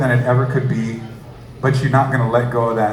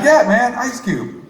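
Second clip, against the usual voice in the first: mock rapper; 10 semitones higher, slower than usual. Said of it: "He's like".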